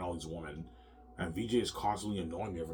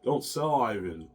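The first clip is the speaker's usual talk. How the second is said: mock pleading wife; 4 semitones higher, 5 dB louder, slower than usual. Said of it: "She'll tell me that".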